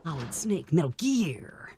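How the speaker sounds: put-on game-hero voice, falling on Gear; Solid Snake. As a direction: intone it like an action hero. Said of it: "do my Solid Snake impression".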